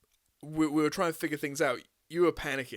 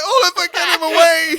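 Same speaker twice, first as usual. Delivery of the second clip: panicked plea; 13 semitones higher, 15 dB louder than usual. Retold or imitated. Mocking the friend's panicked cry to get the guy away, high wail. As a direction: wail it like a terrified friend, laughing through it. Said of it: "you're like".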